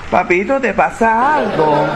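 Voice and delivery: slow, high, mock-innocent "Papito"; ironic. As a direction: sweetly fake concern. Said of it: "irónicamente le preguntan".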